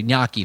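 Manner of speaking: "gnocchi" as "NYAH-kee"; "gnocchi" with gn as in canyon; corrected pronunciation. Shown as a demonstration. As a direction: correct "gnocchi" to start with a ny sound. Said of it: "That's it".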